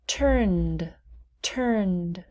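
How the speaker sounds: "turned" as one syllable ending in ND; silent E. Shown as a demonstration. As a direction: say "turned" with no E sound. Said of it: "We do not pronounce the E".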